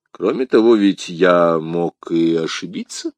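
composed, measured explanation; calm musketeer. Acted. Athos explains the mistake to the commissar, calm. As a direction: explain evenly, unruffled.

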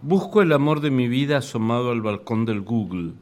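measured poetry recital, pausing between lines; poem reading. Acted. Reads own poem aloud.

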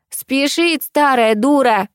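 high, slow sneer, hitting старая; granny correcting the lyric with scorn; mocking correction. A narrator's reading. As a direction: snap the correct line at her. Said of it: "поправила первая бабуля".

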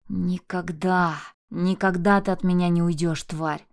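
slow, heavy growl. Acted. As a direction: snarl through spit in rage. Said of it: "рычал он". (рычание)

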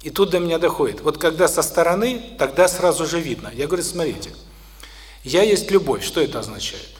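normal talking voice

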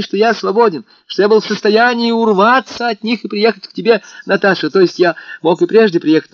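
put-on rapturous young man vowing innocence; excited young lover. A narrator's reading. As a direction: pour out the excuses breathlessly. Alyosha's long excited speech.

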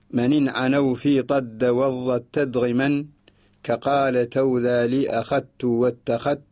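slow measured chant of a didactic poem; verse recitation. Shown as a demonstration. Teacher reciting the sheikh's rhyming verses to listeners, slow chant. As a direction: recite the verses slowly, drawing each word out. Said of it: "يقول الشيخ طالب الله رحمه الله في هذه السداسية".

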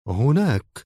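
understated, calm answer. A narrator's reading. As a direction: say it calmly, no push. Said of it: "وقال في هدوء".

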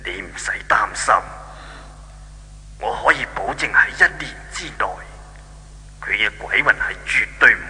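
calm her fears gently; reassuring. Acted. God reassures Xingzi.

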